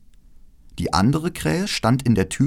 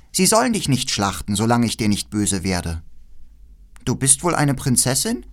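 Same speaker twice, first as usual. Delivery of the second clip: leicht gesprochenes Räubermädchen; 3 semitones higher than usual. Acted. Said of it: "und sagte".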